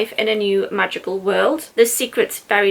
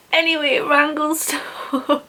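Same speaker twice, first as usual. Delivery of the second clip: choked up; 5 semitones higher, slower than usual. Real, not acted. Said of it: "Try again".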